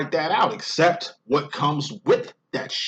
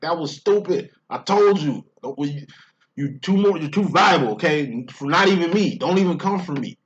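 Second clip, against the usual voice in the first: stern mother scolding; 5 semitones higher, 4 dB louder than usual. Retold or imitated. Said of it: "And she's just like".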